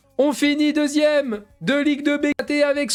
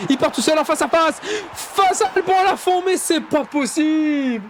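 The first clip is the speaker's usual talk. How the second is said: fast, excited French match commentary; live play-by-play. Acted. Gamer calling his own match as commentator, excited play-by-play. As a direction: call the attack like a TV commentator.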